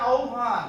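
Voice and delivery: আহ্বান said as "aobhan", h turned into a glide; pronunciation demo. Shown as a demonstration. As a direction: say আহ্বান as "ao-bhan". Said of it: "এটা উচ্চারণ হবে".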